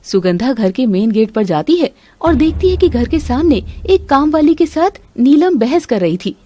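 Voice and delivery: ordinary delivery, nothing marked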